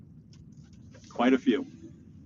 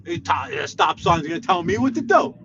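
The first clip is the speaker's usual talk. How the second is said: mock road rage; 8 semitones higher than usual. Real, not acted. Ranting at a stop sign.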